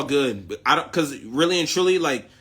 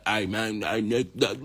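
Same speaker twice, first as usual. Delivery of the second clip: mocking a put-on American accent, lower and softer; fake American accent; 4 semitones lower, 5 dB quieter than usual. Mocking Derek talking in his put-on American accent. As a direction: imitate Derek's phony American accent, mumbled low. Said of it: "talking in that weird ass fucking accent".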